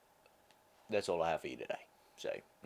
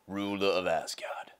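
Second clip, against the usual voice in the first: Thor impression; 3 semitones lower, slower than usual. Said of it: "I'm Thor".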